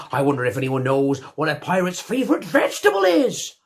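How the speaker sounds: hammed-up swaggering pirate captain; a theatrical pirate telling his tale. Comic pirate captain character throughout.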